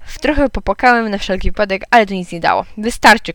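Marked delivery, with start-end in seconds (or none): 2.8-3.3 mild shout. Acted. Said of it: "krzyknął tata".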